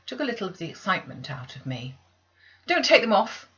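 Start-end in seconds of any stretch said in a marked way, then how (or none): 2.7-3.5 loud, high pleading cry; frightened girl begging the maids. Acted. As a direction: beg them not to tie her. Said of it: "I cried".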